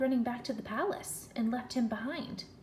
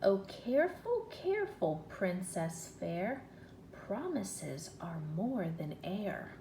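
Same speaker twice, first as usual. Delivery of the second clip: a hint of the frog; slower than usual. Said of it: "He also says".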